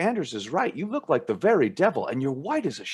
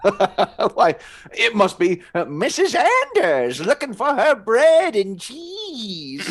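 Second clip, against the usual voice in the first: chuckling, louder and slow; laughing tease; 6 semitones higher, 6 dB louder, much slower than usual. Acted. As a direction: poke fun while laughing. Teasing brother's witch dream.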